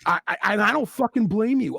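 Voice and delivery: loud, emphatic agreement; emphatic outburst. Real, not acted. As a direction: blurt it out in emphatic sympathy.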